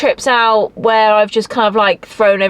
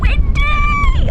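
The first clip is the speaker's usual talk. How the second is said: sudden high yelp of a word; shouting over wind. Real, not acted. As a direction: yell it out against the gust. Gate blown open by wind.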